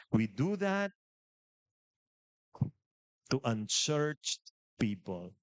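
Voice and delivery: ordinary delivery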